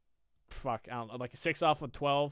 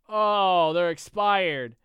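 grudging admission; 5 semitones higher, 9 dB louder, much slower than usual. Retold or imitated. Customer's reluctant admission retold.

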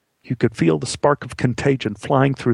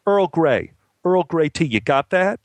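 mild yell, pitched up; yelled order; 5 semitones higher than usual. Acted. Assistant director relaying the tea order to the boy, yelled. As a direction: relay the order curtly and raised. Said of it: "turned back to Joshua and yelled".

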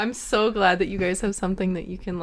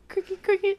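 high squeaky chirping imitation; cricket chirps; 13 semitones higher than usual. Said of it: "Don't they chirp?".

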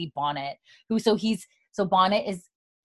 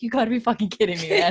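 exasperated disbelief; 3 semitones higher, faster than usual. Retold or imitated. John betrayed by Fergus, mock exasperation. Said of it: "John's looking at him like".

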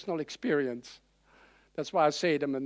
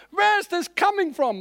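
higher, puzzled exclamation; surprised; 11 semitones higher, 4 dB louder than usual. Retold or imitated. Preacher retelling his surprise at his own unbelief, a touch of shock. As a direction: ask in mock amazement.

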